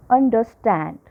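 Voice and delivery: Understand with the weight on stand, un and der light; stress on stand. Shown as a demonstration. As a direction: land on stand, keep un and der small. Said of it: "Un is weak, da is weak, and stand is strong".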